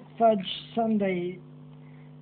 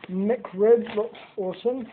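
epic narration voice; slower than usual. Acted. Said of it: "my narration voice again".

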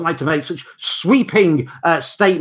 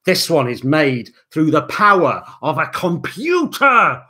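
hammed-up dramatic reveal; mock awe; 3 dB louder than usual. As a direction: announce it with mock wonder.

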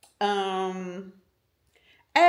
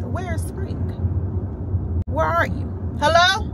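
mock calling out; 8 semitones higher, 5 dB louder than usual. Calling out for spring.

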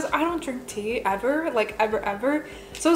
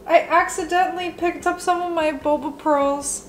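distressed; 5 semitones higher, 4 dB louder than usual. Real, not acted. Retelling the mishap.

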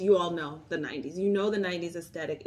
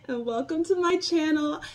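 cheery greeting; 7 semitones higher, 4 dB louder than usual. Real, not acted. Bright vlog opener greeting.

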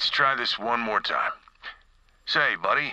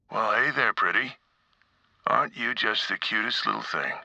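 gentle coaxing; 3 semitones lower than usual. Acted. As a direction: coax a shy creature out. Coaxing a frightened rat.

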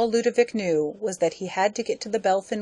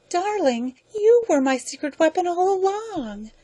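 much higher, sugary gloating lady; sweet scheming wife; 12 semitones higher, 3 dB louder than usual. Acted. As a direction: purr the reveal over him.

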